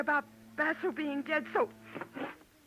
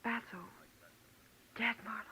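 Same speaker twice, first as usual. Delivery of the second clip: stunned; 4 semitones lower, 8 dB quieter than usual. Acted. Shocked at news of death.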